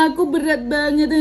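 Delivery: imitated weepy whine; mock crying. Agent mimicking the tearful maid, mock crying. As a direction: wail it mockingly, like a crybaby. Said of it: "Ngapain harus nangis ditunjukin orang".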